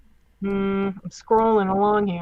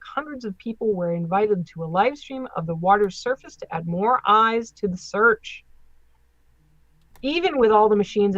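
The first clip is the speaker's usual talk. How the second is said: measured read-aloud with careful phrasing; article read aloud. Acted. Host reads Loch Ness story to co-host, article read-aloud. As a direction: read it out like a news feature.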